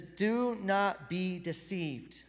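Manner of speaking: drawn out, weighty reading of the verse; slow scripture reading. Acted. A preacher reading scripture, very slow and weighty. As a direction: read the verse slowly to the congregation.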